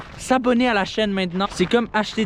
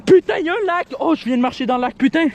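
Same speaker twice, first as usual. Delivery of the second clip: high, loud startled cursing; shocked at stepping in water; real surprised outcry; startled swearing; 8 semitones higher, 4 dB louder, faster than usual. Real, not acted. Steps in a lake.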